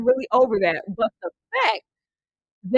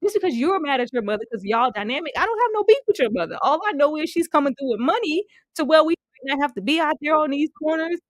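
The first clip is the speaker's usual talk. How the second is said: mock exasperated reply; 4 semitones higher, faster than usual. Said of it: "I was like".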